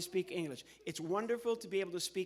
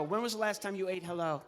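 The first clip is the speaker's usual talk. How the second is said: ordinary delivery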